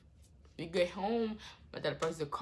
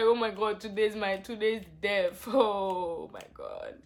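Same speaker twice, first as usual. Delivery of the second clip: panicked retelling; 3 semitones higher, 5 dB louder than usual. Retold or imitated. Panicked retelling of near-death fear.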